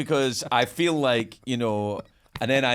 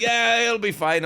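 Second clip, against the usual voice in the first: mock breezy reassurance; 12 semitones higher, 5 dB louder, slower than usual. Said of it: "It's like".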